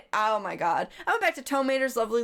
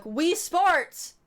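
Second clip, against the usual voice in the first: excited shout; 7 semitones higher than usual. Retold or imitated. Waking up shouting.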